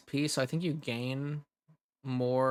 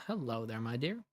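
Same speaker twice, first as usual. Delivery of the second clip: soft, gentle hello; tender greeting; 3 dB quieter than usual. Acted. Streamer welcoming a lost viewer, softly and gently. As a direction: greet them softly like a host.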